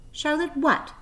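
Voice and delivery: quick, bright and eager; eager question. A narrator's reading. Pig eagerly asking the spider her full name. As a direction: lean in, hungry for her name. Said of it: "asked Wilbur eagerly".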